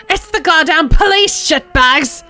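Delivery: high, loud frantic police callouts; megaphone scream. Acted. Crazed woman screaming at detectives through megaphone, high and loud. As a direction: blast each phrase like an alarm. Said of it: "she yells into the microphone".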